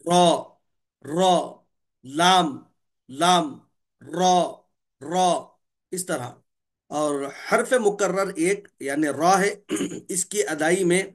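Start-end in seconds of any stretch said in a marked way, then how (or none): 0.1-5.5 را and لام spoken crisply, tongue tip curling back; deviating letters. Shown as a demonstration. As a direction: drill را and لام one by one. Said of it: "آواز نوک زبان کی طرف پلٹتی". (نوک زبان پلٹ کر را اور لام)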